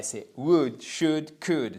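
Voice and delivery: "would, should, could" each with no L sound; silent L. Shown as a demonstration. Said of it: "vous ne le prononcez jamais".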